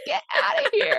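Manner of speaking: high squeal of disbelief; incredulous. Retold or imitated. Host reacting to the eggplant comment with a high mock squeal. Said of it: "And I was like".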